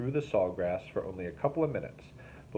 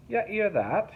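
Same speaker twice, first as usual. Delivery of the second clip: sneering; 13 semitones higher, 5 dB louder, slower than usual. A narrator's reading. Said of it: "he sneered".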